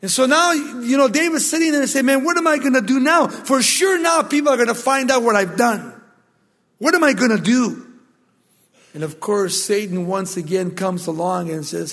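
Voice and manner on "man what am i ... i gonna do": higher, louder, rushed panic; panicked outcry. Retold or imitated. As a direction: blurt it out like a man caught. David panicking over discovery.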